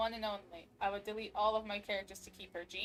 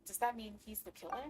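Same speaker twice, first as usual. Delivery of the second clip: reading game text. Acted. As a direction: read the evidence out steadily. Reads game case notes.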